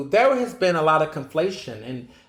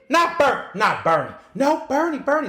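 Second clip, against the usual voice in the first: disbelieving; 10 semitones higher than usual. Retold or imitated. Disbelief over which Bernie.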